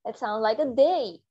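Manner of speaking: "they" slow, starting with a soft d. Shown as a demonstration. Teacher correcting students, modelling "they". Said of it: "गलत है".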